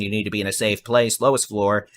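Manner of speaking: slowed down. Real, not acted. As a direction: ease off the speed, spell it out. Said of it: "I'll try to slow it down".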